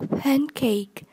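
"Pancake" stressed on PAN; stress on first syllable. Shown as a demonstration. Teacher modelling vocabulary for learners, "Pancake" stressed on PAN. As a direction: hit PAN in "Pancake", let cake fall away. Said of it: "nhấn âm một".

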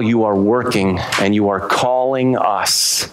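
earnest pastoral prayer voice; closing prayer. Acted. Pastor leading the church in prayer, earnest prayer voice. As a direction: pray it steadily, thanking God.

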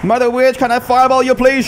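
playful polite voice. Pretend. Playfully addressing the Mother Witch card.

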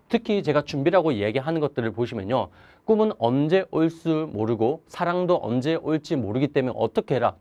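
ordinary talk, nothing marked

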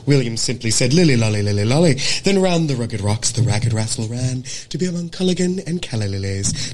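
dialect warm-up passage read aloud; acting-school diction drill in General American; crisp General American demo. Shown as a demonstration. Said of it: "General American".

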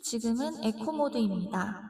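echoing mic effect; phone echo. Shown as a demonstration. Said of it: "에코 모드 켜겠습니다".

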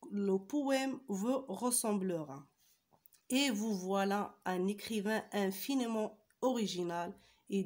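slow, measured diction reading; careful teacher's read-aloud of a poem. Acted. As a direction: read the poem out phrase by phrase, with pauses.

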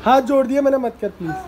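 loud pleading. Real, not acted. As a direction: plead loudly, hands folded. Begging the screaming one to stop. (ज़ोर से गिड़गिड़ाते हुए)

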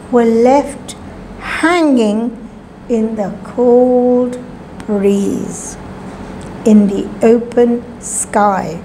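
plain reading voice

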